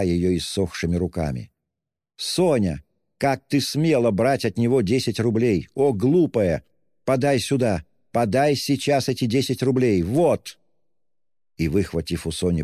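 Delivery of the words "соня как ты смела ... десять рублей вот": scolding. Acted. Katerina scolds Sonya, demands money.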